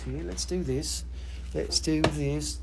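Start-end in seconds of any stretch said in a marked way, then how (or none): 1.5-2.6 slow and drawn out. Shown as a demonstration. Seller announcing the next crystal to viewers, slow and drawn out. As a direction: stretch each word slowly, leaning on do. Repeats the line a second time.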